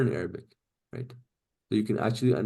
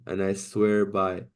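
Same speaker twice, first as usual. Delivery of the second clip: slow demo reading; 2 semitones lower, slower than usual. Shown as a demonstration. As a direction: read "And I swear by" slowly, word by word. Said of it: "It was not saying".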